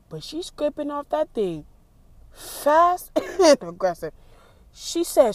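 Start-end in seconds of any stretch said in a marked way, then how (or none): 2.3-5.3 laughing, higher and louder. Real, not acted. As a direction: crack up at the sight. Laughing at woman outside.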